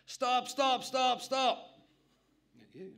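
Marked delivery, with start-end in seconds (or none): 0.1-1.8 put-on high, loud yell of an old woman; old granny yelling. Old granny cutting off the salesman with a loud yell. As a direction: shout it out like an outraged old granny. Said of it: "this old granny yells out".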